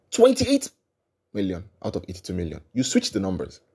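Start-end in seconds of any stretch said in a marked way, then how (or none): 0.1-2.6 incredulous. Real, not acted. Repeated figure, high then fading.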